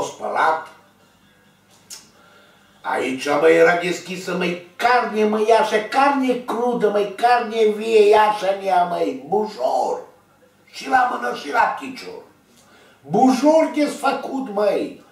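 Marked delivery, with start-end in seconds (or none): 3.2-15.0 pitched much higher, slowed and stretched out; reliving the shock of seeing raw flesh; agitated recounting. Real, not acted. Telling viewers about his open wound, worked up and high-pitched.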